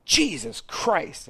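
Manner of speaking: high, drawn-out startled exclamation; shouting out. Retold or imitated. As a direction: blurt it out in a high, stretched cry. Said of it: "she just shouts out".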